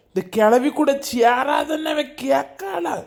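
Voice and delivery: sudden shout at his wife; angry outburst. Acted. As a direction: yell it out in a rage. Husband furious about the beating. (கோபத்தில் கத்துதல்)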